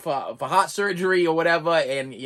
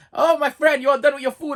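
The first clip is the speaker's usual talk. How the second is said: higher, louder cheerful motherly greeting; doting Portuguese lady; 8 semitones higher, 5 dB louder than usual. Retold or imitated. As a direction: sing out a caring lunch-lady hello. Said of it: "Portuguese lady comes in again".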